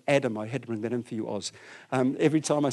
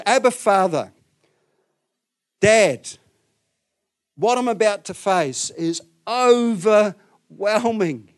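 acted anguish; 5 semitones higher, 6 dB louder, slower than usual. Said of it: "deep, deep grief".

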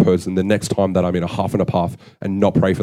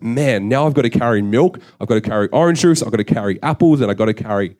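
annoyed; 2 semitones higher than usual. Retold or imitated. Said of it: "I was so annoyed".

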